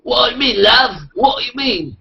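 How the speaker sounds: high, hammed-up British accent; exaggerated British "love" accent; mock British accent. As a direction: put on a high-pitched cheeky British voice. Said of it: "He's doing the British accent that you guys should be attempting".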